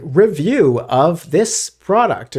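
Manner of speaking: slow, stiff AI narrator voice. Retold or imitated. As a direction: read it like a text-to-speech voice. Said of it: "it's just an A I voice".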